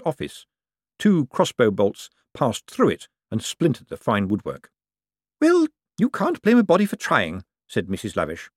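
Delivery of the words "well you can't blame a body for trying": put-on much higher, cackling old woman voice; cheeky old lady. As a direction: play a sharp old dame with no fear. Old Topsy jokes with Death.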